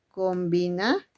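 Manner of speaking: "combinaciones" split, rising "combina", pause, then "ciones"; word broken up. Shown as a demonstration. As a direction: hold back the end of "combinaciones" after a rise. Teacher breaks word up for class.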